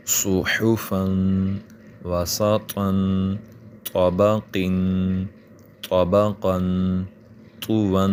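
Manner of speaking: "صحفا" and "وسطا" very slow with a thick ص and ط; heavy sad and toa sounds. Shown as a demonstration. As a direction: lean into the heavy letters, very slowly. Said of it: "سین اور صاد ... تلفظ میں مختلف". ("صحفا" میں ص موٹا اور آہستہ)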